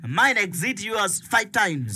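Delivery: one-upping sufferer. Acted. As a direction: stretch it out to outdo their misery. Acted contest over whose trouble is worse.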